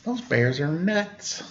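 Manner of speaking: soft, slow aside to the listener; hushed slow aside; quiet aside. A narrator's reading. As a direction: lean in and mutter it softly. Narrator aside comment.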